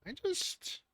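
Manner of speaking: sleepy mid-yawn mumble; groggy goblin yawning through the words. Acted. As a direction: drag it out like you just woke up. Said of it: "yawn and go".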